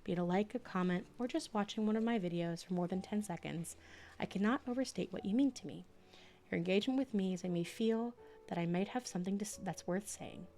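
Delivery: steady audiobook narration; reading aloud. Acted. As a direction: read it like your own afterword. Reads her book aloud.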